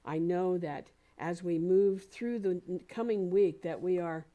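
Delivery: firm, declarative spoken prayer; closing prayer. Real, not acted. Minister closes out today's talk for the congregation, in affirmative prayer. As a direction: pray it out in emphatic, measured phrases.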